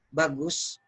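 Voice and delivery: understated, doubtful "bagus"; insincere praise. Shown as a demonstration. Coach shows how intonation flips meaning, insincere praise. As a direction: let the tone undercut the word. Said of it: "Karena intonasinya".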